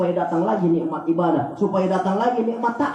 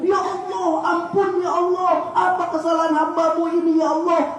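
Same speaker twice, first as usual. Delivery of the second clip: higher, raised voice begging forgiveness; pleading prayer; 6 semitones higher than usual. Pretend. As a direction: cry out to God, half acted. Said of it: "Terus kita nangis di hadapan Allah". (doa memohon ampun dengan suara tinggi)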